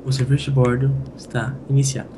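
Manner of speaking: lightly put-on cabin announcer voice. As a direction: announce it like a pilot on the intercom. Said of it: "você tem que fazer com essa voz mesmo?". (voz de anunciante de bordo, leve)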